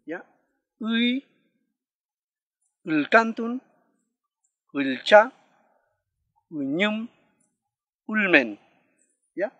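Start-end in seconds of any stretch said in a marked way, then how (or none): 0.8-8.6 Uy, ulcantun, ulcha, uñum, ulmen word by word, each opening on the sixth vowel; word-initial sixth vowel. Shown as a demonstration. Teacher shows learners the vowel at word start, careful model of Uy, ulcantun, ulcha, uñum, ulmen. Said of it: "Así se pronuncian estas palabras".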